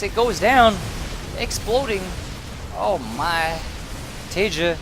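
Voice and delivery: loud, high play-by-play shout; excited shout. Real, not acted. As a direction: call the big moment out. Caster calls Nexus kill.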